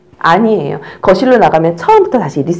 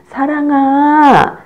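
louder, higher, very slow call; calling loudly; 6 semitones higher, 4 dB louder, much slower than usual. Shown as a demonstration. Teacher demonstrates calling the baby's name loudly. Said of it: "크게 해주세요".

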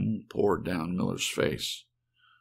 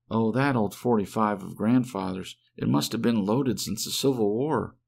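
Helen, anxious wife; 3 semitones higher than usual. Acted. Wife explaining to Dave why she came back, anxious. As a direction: voice her breathless with relief and worry.

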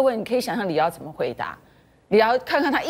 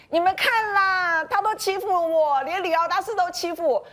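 coquettish whining; 10 semitones higher than usual. Retold or imitated. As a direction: imitate a cutesy plea for sympathy. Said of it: "就是撒娇说".

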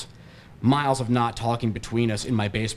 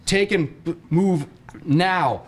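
loud, higher barked command; yelling order; 6 semitones higher, 3 dB louder, much slower than usual. A narrator's reading. Friend on the phone orders him out, yelling. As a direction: bark the order. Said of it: "he yells again".

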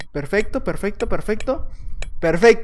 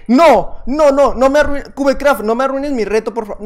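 loud, higher begging no no no; loud pleading; 4 semitones higher, 4 dB louder than usual. Real, not acted. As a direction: beg the game not to ruin it. Pleading with the server.

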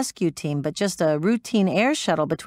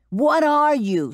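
slow, much higher roar; 9 semitones higher, 3 dB louder, slower than usual. Acted. Metz roaring at the collapsing pilot, roaring. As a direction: roar it to break her. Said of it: "she roared".

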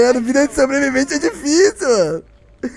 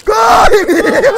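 teasing shout, louder; mock urgent shout; 11 semitones higher, 5 dB louder, much slower than usual. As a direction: yell at him to run. Killer taunting fleeing friend.

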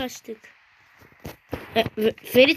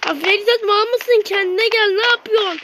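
louder, exasperated scolding at a friend; a real telling-off, pitched up and loud; 4 semitones higher, 3 dB louder than usual. Real, not acted. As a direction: tell Ferit off, fast and loud. Scolding friend Ferit in game.

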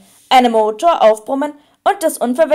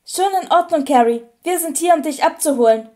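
slightly hoarse voice; 4 semitones higher than usual. Acted. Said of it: "ein wenig heisere Stimme".

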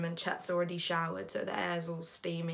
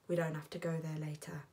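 soothing partner; 2 semitones lower, 7 dB quieter, faster than usual. Acted. Chet humouring the anxious narrator, softly reassuring. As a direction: repeat it back gently and evenly.

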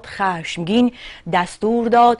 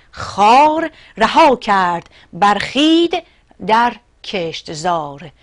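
ringing, measured epic verse; poem recitation; 4 dB louder than usual. Acted. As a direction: declaim the verse with weight on each phrase. (شعرخوانی حماسی و رسا)

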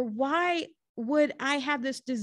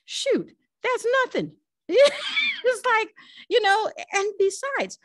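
laughing dismissal; 10 semitones higher, 5 dB louder than usual. Real, not acted.

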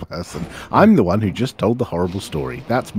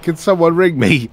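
raised, louder co-worker imitation; higher and louder retold question; co-worker's request; 8 semitones higher, 5 dB louder than usual. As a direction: act out a puzzled appeal to the room. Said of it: "he said".

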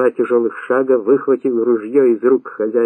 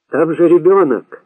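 raised, higher protest; shouting; 5 semitones higher, 4 dB louder than usual. A narrator's reading. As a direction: cry out in protest. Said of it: "закричал Рустам". (протестующий возглас)

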